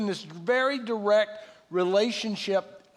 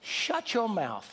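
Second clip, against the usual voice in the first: inner voice; 5 dB quieter, slower than usual. Retold or imitated. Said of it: "the voice says".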